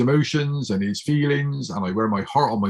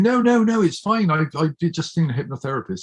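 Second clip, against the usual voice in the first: reassuring brother; 5 semitones higher than usual. Retold or imitated. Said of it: "him reassuring people and saying".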